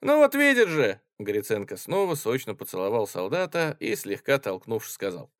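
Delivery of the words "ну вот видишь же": high, loud delighted exclaim; triumphant. Acted. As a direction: crow with drunk glee. Tipsy officer triumphant. (пьяное торжество)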